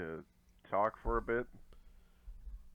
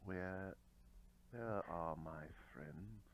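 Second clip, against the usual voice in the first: quiet menace; 3 semitones lower, 12 dB quieter than usual. Acted. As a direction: press softly for an answer. Player questions enemy in character.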